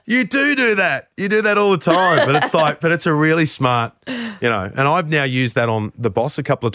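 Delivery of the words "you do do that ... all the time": high laughing reply, words bubbling through a laugh. Real, not acted. Host laughing as he tells Zach he overplays. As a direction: laugh the accusation out fondly. Laughing while teasing the producer.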